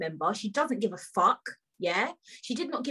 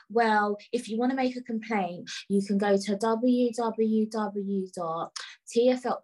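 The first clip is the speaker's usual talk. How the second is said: slow, level recital imitating an official; mock calm; 2 semitones lower than usual. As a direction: spell it out with patronising calm. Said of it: "she was speaking, like, calm".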